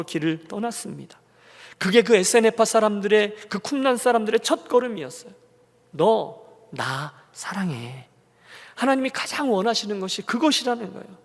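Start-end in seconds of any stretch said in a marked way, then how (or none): 5.9-8.1 very slow, lower and tender; tender divine voice. Retold or imitated. Preacher repeats God's words to the congregation, tender and slow.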